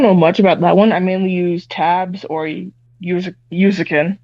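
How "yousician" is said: "Usikin" ending in a hard k-in; mispronounced app name. Real, not acted. Guitarist fumbling an app's name, mispronounced "Usikin". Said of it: "I can never pronounce it correctly".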